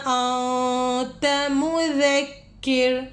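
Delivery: slow melodic tajweed chant; Quran recitation. Acted. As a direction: draw out each verse in measured chant.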